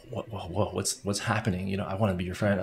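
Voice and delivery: softly imitated intrigued onlookers; hushed amazement. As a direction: marvel under your breath, mock-amazed. Voicing intrigued onlookers' reaction.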